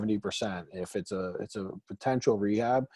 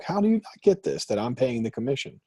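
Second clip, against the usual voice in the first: exasperated. Retold or imitated. Retold exasperated argument.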